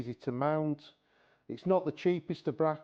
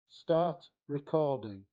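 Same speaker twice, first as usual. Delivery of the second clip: voice command; 2 semitones higher, slower than usual. Shown as a demonstration. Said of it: "quick demonstration of the camera".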